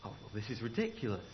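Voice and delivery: sleepy dismissive aside; dismissive mutter. Acted. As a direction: brush it off under your breath. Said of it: "And he thought".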